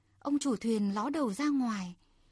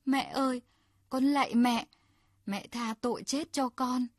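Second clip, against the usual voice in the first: mild plea for mercy; 2 semitones higher, 3 dB louder than usual. Acted. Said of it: "Hắn gào lên thảm thiết".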